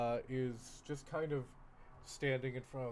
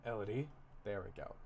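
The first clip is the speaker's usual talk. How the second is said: put-on French accent corrected; 3 semitones lower than usual. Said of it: "It's just the name".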